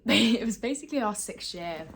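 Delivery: breathless after climbing into bed; talking while catching breath. Real, not acted. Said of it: "I'm so out of breath".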